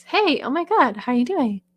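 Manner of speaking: high head-voice chatter; head voice speaker. Retold or imitated. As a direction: imitate someone who talks up in the head. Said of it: "speak in their head voice".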